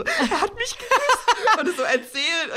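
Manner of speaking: high, slow, giddy squeal. Retold or imitated. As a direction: squeal it like a smitten teen. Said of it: "wie er danach so zu seinen Freunden". (hoch quietschend vor Verliebtheit)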